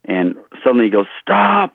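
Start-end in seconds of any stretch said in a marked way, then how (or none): 1.2-1.7 sudden high-pitched retold order to halt; abrupt command. Director halting the trainer fixing his grip, abrupt command. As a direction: cut in with a high, imitated command.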